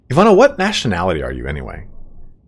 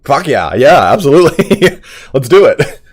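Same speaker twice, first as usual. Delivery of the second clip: hyped agreement; 6 semitones higher, 6 dB louder, slower than usual. Retold or imitated. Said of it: "I'm like".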